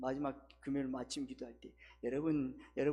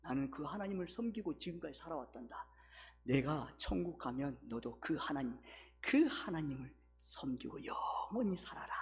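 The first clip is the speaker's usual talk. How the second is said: tender blessing; 3 semitones lower, 4 dB quieter than usual. Shown as a demonstration. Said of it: "말해주는 거예요".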